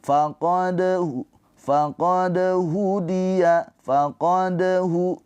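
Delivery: faqad with a light bounce on the d flowing on; light qalqalah. Shown as a demonstration. Teacher demonstrates light qalqalah to students. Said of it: "Dipantulkan sambil mengalir".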